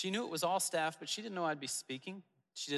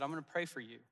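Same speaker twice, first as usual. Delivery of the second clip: plainly sincere, meaning every word; 3 dB quieter, faster than usual. Retold or imitated. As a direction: say it and truly mean it. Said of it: "I could tell that he meant it".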